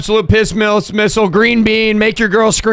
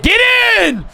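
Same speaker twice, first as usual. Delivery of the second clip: excited shout; much slower than usual. Real, not acted. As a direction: yell in triumph. Kick goes through.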